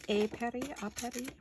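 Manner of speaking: put-on a light, playful French accent on the names; mock French accent. Crafter hamming up French names for viewers, light French accent. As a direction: toss off the words in a jokey French accent. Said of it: "Get out my French accent".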